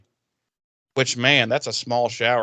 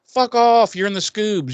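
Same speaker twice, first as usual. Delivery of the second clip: high, mock-angry telling-off; raised-pitch scolding; exasperated dismissal; 8 semitones higher than usual. Acted impatient dismissal.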